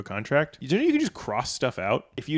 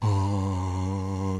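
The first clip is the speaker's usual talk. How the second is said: toilet refilling noise; a long, soft breathy imitation of plumbing; imitated toilet gasp; 4 semitones lower, 6 dB quieter than usual. Comedian imitating a toilet that isn't ready, drawn-out gasp. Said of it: "does that thing where it's like".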